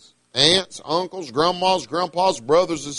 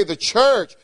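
"church" punched higher; stress on church; 4 semitones higher than usual. Real, not acted. Preacher tells listeners what matters to him, heavy stress on "church". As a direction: lean hard on the word "church". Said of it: "I put a lot of emphasis on the church".

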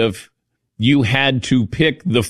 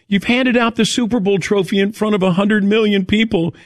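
imitating wife; 9 semitones higher than usual. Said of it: "'Cause my wife goes".

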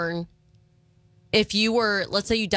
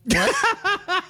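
high-pitched imitated "What?"; exaggerated startled mimicry; mock shock; 10 semitones higher than usual. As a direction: act out a shocked, high yelp of a question. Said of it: "why did Izzy look shocked?".

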